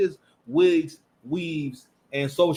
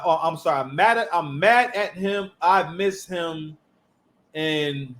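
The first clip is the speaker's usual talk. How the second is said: mock woman's lament; 3 semitones lower, slower than usual. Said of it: "subject matter for all music".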